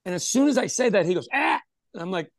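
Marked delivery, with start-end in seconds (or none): 1.3-1.6 weird noise. Retold or imitated. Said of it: "interrupting me with these weird noises".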